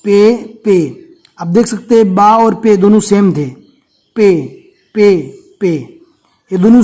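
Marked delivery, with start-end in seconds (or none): 0.0-0.8 پے said with a long close e, majhul; teacher drawing out پے as majhul pay. Shown as a demonstration. Teaching pupils the letter, پے with a majhul long e. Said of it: "اس کو مجہول پڑھنا ہے". 4.2-5.8 each پے given a long close e, majhul. Shown as a demonstration. Drilling pupils on the letter, پے said majhul. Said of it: "اس کو مجہول پڑھنا ہے".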